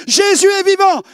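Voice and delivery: high, loud excited cries; excited shouting. Retold or imitated. Son bursting into the room shouting excitedly to his mother. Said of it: "j'arrive en disant".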